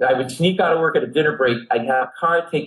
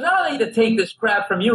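put-on drunken indignation; 7 semitones higher than usual. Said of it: "And he's drunk, and he's going".

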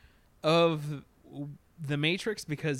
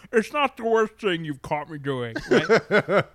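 cheeky line through laughter; laughing; 4 semitones higher, 9 dB louder than usual. Retold or imitated. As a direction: laugh while delivering the comeback.

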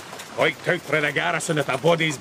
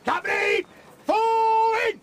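shouted order; slower than usual. Acted. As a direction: bark it across the field. Calling out a military command.

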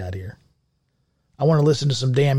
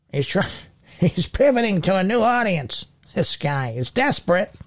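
put-on old lady voice; 6 semitones higher than usual. Continues old lady aside.

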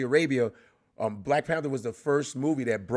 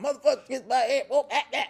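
mock gangster audition; 12 semitones higher than usual. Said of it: "everybody's going".

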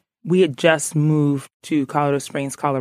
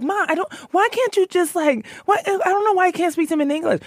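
put-on high, pleading teen voice; whiny teen pleading; 13 semitones higher, faster than usual. Teen begging mom to speak English in front of friends, high whine. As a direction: beg your mom like an embarrassed kid, pitched high. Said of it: "I was literally like".

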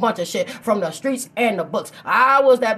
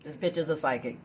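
quiet retold quote; 6 semitones lower, 8 dB quieter than usual. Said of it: "they'll tell you".

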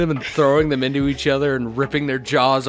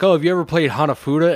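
mock sweet girl; 5 semitones higher, 5 dB louder, faster than usual. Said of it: "she's like".

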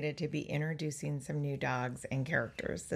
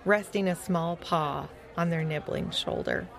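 animated, measured storytelling voice; story narration; 4 dB louder than usual. A narrator's reading. Telling young listeners about Fetcher's adventure, story narration. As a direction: read it out clearly for young listeners.

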